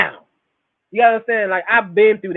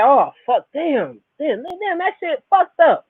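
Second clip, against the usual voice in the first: mock cussing; 6 semitones higher, slower than usual. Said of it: "you can cuss the shit out and say".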